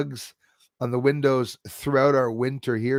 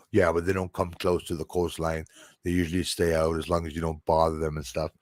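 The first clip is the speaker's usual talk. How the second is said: low, matter-of-fact voice of another man; retold local guy; 7 semitones lower, faster than usual. Local brushing off worries about swimming with sharks, low casual voice. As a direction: lightly imitate an unfazed local, low and even. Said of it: "He goes".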